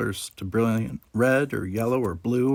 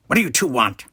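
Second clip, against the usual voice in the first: smug Ferengi barkeeper; 2 semitones higher, 4 dB louder, faster than usual. A narrator's reading. Quark greets his nephew and Jake, a louder smug Ferengi voice. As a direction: tease the boys with a grin.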